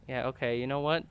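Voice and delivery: usual speaking voice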